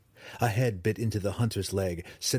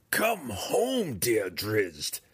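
purring; much slower than usual. A narrator's reading. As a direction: coax him sweetly like a spell. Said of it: "she purred".

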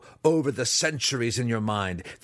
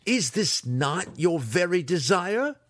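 much higher, louder, mounting taunt; mocking goad; 8 semitones higher, 4 dB louder than usual. A narrator's reading. Weapons master tempting his pupil with fame, rising taunt. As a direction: tempt him with glory, building.

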